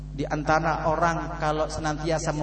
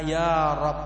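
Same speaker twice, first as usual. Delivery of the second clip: mother's prayer; 3 semitones lower, 5 dB quieter, slower than usual. Acted.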